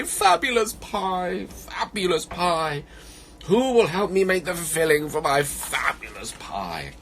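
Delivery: high, slow plaintive call; mildly tearful bear. Acted. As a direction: plead down a burrow, a touch sad. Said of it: "with a tear in his eye".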